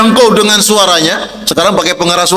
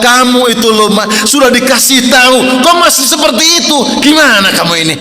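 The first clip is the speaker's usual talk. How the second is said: higher, a hint of an angry husband; mock scolding shout; 4 semitones higher than usual. Husband mildly shouting at his wife at the table. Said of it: "kenapa harus teriak-teriak?".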